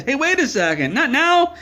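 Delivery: high, loud protest that climbs; shout. Retold or imitated. Owner yelling as Todd rips the cat out, high rising shout. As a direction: yell at the guy taking your cat.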